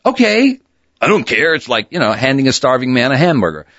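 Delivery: high, eager yes to any name; eager acceptance. Retold or imitated. New hire grabbing the air name, eagerly. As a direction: jump at the offer like a starving man.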